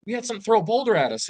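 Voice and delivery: high and fast, tumbling out the news; excited blurt. Retold or imitated. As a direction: rush it out high like a scared kid. Kids telling grandpa the news.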